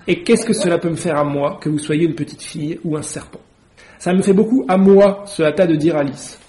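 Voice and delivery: reading a novel passage aloud to a class; lightly acted read-aloud with voiced characters; story reading. Lecturer reading Alice to students, lightly acted.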